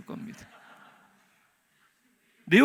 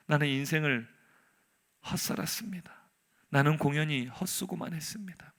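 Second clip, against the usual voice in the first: subdued, lower, defeated delivery; resigned lament; 4 semitones lower, 4 dB quieter than usual. Acted. Prophet telling God his life was wasted, resigned. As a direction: say it deflated, letting the voice sink.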